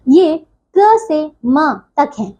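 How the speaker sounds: slow, deliberate statement; slow emphasis. Shown as a demonstration. Teacher to her students, slow and deliberate. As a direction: spell out the range slowly so it sticks. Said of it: "teacher stressing a range".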